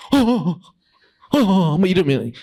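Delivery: high, slow, hesitant stammer; flustered stammer. Shown as a demonstration. Panicked student stuck on an exam question, stammering. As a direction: stammer like you're rattled. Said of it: "안 돼, 안 돼".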